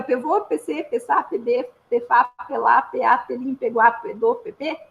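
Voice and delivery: each syllable led by pe: "pevô, pecê, pessá, pebê, pefá"; Língua do P sentence. Shown as a demonstration. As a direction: rattle off the whole sentence in Língua do P, pe before every syllable. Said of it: "eu brinquei que eu ia falar uma frase". (frase inteira na língua do P, com pe antes de cada sílaba)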